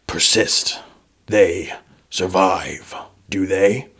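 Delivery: slow, haughty undead king. Acted. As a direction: draw it out like a menacing ruler. GM voices the king.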